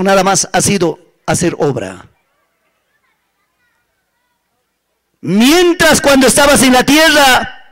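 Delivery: solemn divine reproach, measured with long pauses; preacher voicing God's stern judgement; the Lord reproving. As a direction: pronounce sentence phrase by phrase, letting each sink in. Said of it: "Él le dice".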